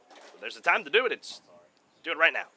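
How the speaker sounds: loud high urging; rally him on; excited urging. Real, not acted. Urging batter to homer.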